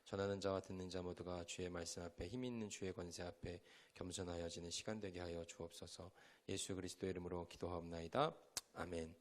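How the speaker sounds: soft, hushed opening prayer. Acted. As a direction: pray quietly and humbly before the word. Opening prayer before the sermon. (조용하고 겸손한 기도)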